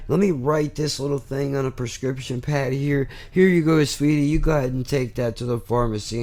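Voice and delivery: a hint of a soothing, sweet-talking doctor; sympathetic doctor. Doctor sending a patient off with a prescription, mock sympathy. Acting out an overly kind doctor.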